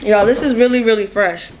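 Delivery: talking through a bite; chewing while talking. Real, not acted. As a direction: mouth full of food. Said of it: "I don't mean to talk while I'm eating".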